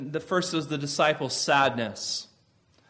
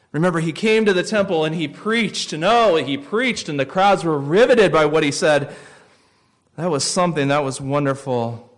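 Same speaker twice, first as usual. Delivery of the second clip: higher and louder, swept up in the memory; excited remembering; 4 semitones higher, 5 dB louder than usual. Retold or imitated. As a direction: relive the crowds with growing fervour. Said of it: "They're saying".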